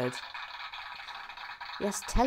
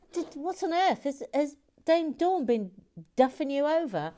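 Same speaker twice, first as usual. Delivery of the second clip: mock alarm; 7 semitones higher than usual. Teasing a viewer's game character.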